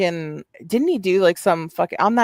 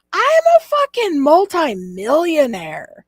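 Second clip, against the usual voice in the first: put-on shrill, swooping drunken scream, very high-pitched; 10 semitones higher than usual. Retelling what a drunk caller said on a show, imitating him screaming. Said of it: "he's like screaming it".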